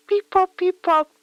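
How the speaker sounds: high, loud chirpy beep-pop noises; mock phone beeps. Playing a retro caller, beeping into the phone. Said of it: "I'm a retro person on the telephone".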